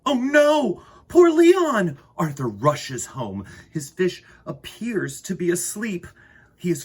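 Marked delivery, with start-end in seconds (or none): 0.1-2.0 high, loud cry of dismay; alarmed, high-pitched lament. Acted. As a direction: wail it out as if heartbroken. Dismay over the fish.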